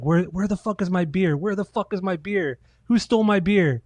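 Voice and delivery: mock drunken slurred yelling; drunk singer slurring. Husband stumbling out of the studio, slurred drunk demanding beer. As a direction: slur it like a drunk looking for beer. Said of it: "you could just tell he's slurring his words".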